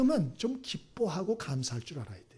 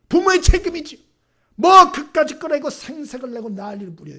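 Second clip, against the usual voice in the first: put-on much higher and louder, a child snapping at its mother; indignant talking back; 13 semitones higher, 13 dB louder than usual. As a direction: shout back at mom that it's her duty. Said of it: "더 화를 내는 거야".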